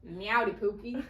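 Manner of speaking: lightly put-on country accent, amused. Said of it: "like, a country accent".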